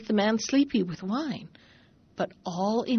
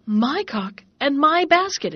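insistent interruption; 5 semitones higher, 4 dB louder, slower than usual. Acted. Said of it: "interrupted he".

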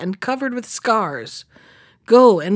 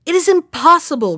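higher, louder cry of disbelief; the king bursts out, higher and louder; shocked outcry; 7 semitones higher, 6 dB louder than usual. A narrator's reading. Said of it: "cried the king".

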